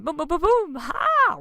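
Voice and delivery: loud, high booms ending in a whoop; excited cheer; playful boom. Pretend. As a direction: celebrate victory with kid sounds. Celebratory sound effects.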